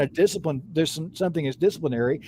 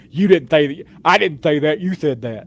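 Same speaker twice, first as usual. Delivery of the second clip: lightly mimicked petulant kid with a lisp; petulant child; 4 dB louder than usual. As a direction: bicker like a lisping little kid, mock-childish. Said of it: "like a petulant, like a, like my eight-year-old daughter".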